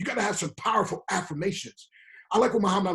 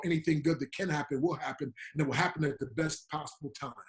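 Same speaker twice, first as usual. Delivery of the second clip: soft recited affirmation; 5 semitones lower, 6 dB quieter than usual. Shown as a demonstration. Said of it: "I started doing Doctor Breakthrough's Law".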